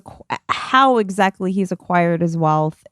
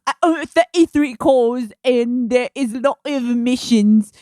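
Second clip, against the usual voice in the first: mock Tate; 4 semitones higher than usual. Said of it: "He said, he said".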